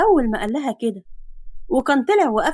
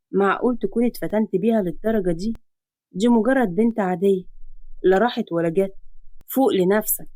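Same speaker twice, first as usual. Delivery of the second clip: self-reproach; 4 semitones lower than usual. Acted. Man before the mirror blaming himself. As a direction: lower man's voice, reproaching himself. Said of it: "وقال لنفسه بلوم".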